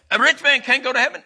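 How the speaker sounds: high-pitched, astonished protest; amazed disbelief. Acted. Preacher voicing disciples shocked about rich men and heaven, amazed. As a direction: blurt it out as a stunned disciple. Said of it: "they were totally amazed".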